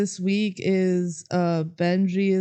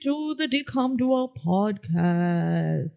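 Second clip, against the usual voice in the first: put-on slow, hammy old-time radio host; a lightly put-on old-fashioned welcome; old-timey voice; 3 semitones higher, slower than usual. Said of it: "these old-timey voices".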